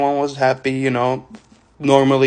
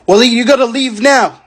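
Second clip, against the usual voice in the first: mock shout, pitched up high; retold shout; 10 semitones higher, 4 dB louder than usual. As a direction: imitate a coworker suddenly shouting an order. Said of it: "shouted at me all of a sudden".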